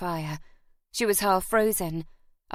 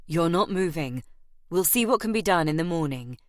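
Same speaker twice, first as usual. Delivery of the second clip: firmly; 2 semitones lower than usual. Acted. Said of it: "he told her firmly".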